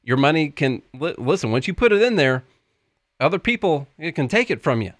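folksy Southern pitchman; Tennessee accent. Pretend. Co-host pitches the stock market class, mock Tennessee accent.

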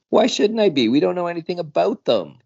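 high, fast, panicky; nervous worried voice; frightened. Acted. Scared character's quoted reply.

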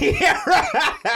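high laughing yeah. Real, not acted. Laughing at cat story.

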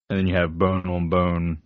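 lingering, suggestive delivery; sensual. Real, not acted. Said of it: "you said that very sensually".

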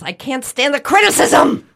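loud, high mock wail; hammed-up cry of anguish; mock outburst. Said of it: "now you're making me nervous".

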